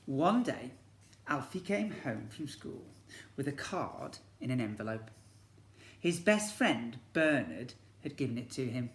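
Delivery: lively picture-book storytelling; story narration. A narrator's reading. Teacher reads to year one in storybook narration. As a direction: read it to the class like a storybook.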